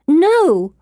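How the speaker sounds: high, loud refusal; sharp protest. A narrator's reading. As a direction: cry out to refuse, drawn high. Narrator refuses being humoured.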